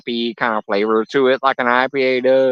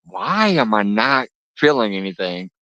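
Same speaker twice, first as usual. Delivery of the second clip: laughing puzzlement. Retold or imitated. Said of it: "I'm like".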